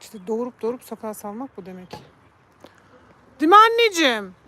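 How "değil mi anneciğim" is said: high, loud fond question to the cat; pet talk. Real, not acted. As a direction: ask the cat sweetly. Talking to the cat. (kediye yüksek, sevgi dolu soru)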